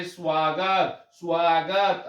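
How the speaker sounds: स्वागत with a faint u glide after s, no full vowel; pronunciation demo. Shown as a demonstration. Teacher models स्वागत for students, careful demo. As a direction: say स्वागत as swāgat, a hint of u but no full u. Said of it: "जैसे आप पढ़ते हैं इसे".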